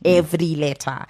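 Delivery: "Every letter" with each sound pronounced out; carefully sounded-out "Every letter"; fully articulated. Shown as a demonstration. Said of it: "we articulate every word that we say".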